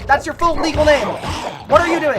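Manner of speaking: scolding. Real, not acted. Scolding the character.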